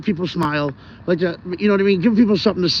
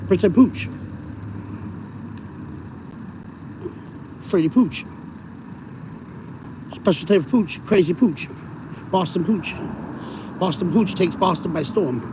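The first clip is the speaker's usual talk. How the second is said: imagined dog voice; 2 semitones higher, 4 dB quieter than usual. Acted. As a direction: talk for the pet poodle, mildly put-on. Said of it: "That's why I picture he talks like".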